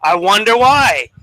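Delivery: slow, high, loud mock wonder; exaggerated sing-song jab; sarcastic. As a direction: draw it out with heavy sarcasm. Sarcastic comeback in retold quarrel.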